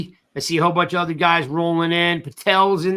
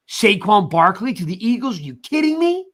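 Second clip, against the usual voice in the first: son's outraged disbelief; 3 semitones higher than usual. Retold or imitated. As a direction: voice jumping up in disbelief. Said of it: "He's like".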